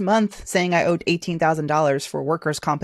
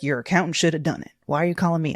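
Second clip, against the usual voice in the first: lightly imitated Southern accent; 4 dB quieter than usual. State labor official brushing off a caller, Southern accent. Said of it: "he had a Southern accent".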